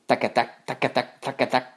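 tac-a-tac hoof imitation; rhythmic trotting sound; hoofbeats. A narrator's reading. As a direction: rap it out in rhythm like hooves. Imitates big goat's hooves.

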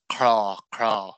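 "Craw Craw" said slowly, rhyming with crow's caw; slow "Craw Craw", a rolled r and an open aw; Connacht Irish pronunciation. Shown as a demonstration. Giving the Connacht Irish version, slow "Craw Craw". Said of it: "it's pronounced".

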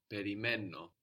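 Περιμένω stressed on μέ, then falling; stress before the ending. Shown as a demonstration. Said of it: "we have the stress just before that o ending".

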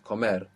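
"Comer" stressed on MER; stress on the end. Shown as a demonstration. Teacher confirming accent on the end, "Comer" stressed on MER. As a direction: lean on the last syllable of "Comer". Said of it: "Accent on the end".

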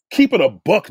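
lively, punchy slang delivery; with pizzazz. Shown as a demonstration. Host showing a corny caller the cooler phrase, with pizzazz. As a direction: say it with a bit of swagger and zip. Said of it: "little pizzazz in it".

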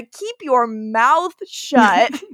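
slow menacing warning. Retold or imitated. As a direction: drag it out like a threat. Killer voiced threatening Elena.

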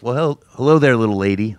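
lightly imitated deep-voiced grandpa; deep-voiced dad. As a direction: greet a child with a hint of an old dad's deep voice. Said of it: "He has a really deep voice".

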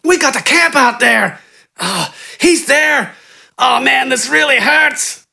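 high, gasping, desperate pleading; pained pleading bandit. A narrator's reading. Kneecapped bandit giving up the camp, high gasping plea. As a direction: beg through the pain, high and breathless. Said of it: "spoke between pained gasps".

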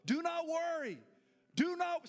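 high and loud, stress on not; forceful declaration. Shown as a demonstration. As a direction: proclaim it boldly. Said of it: "say that with me".

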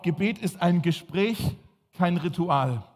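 slow dictation pace; dictating. Shown as a demonstration. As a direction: say it slowly so they can write. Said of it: "schreibt mal auf".

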